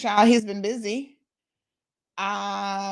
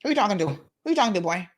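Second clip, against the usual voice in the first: put-on Caymanian accent; 4 dB louder, faster than usual. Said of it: "that Caymanian accent".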